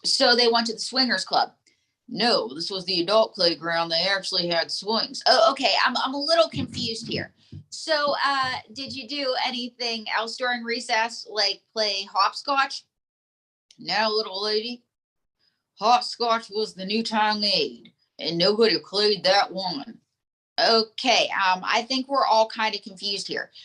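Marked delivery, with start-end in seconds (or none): 2.1-5.2 lightly voiced folksy dummy; ventriloquist dummy. 13.8-20.0 lightly voiced folksy dummy; ventriloquist dummy.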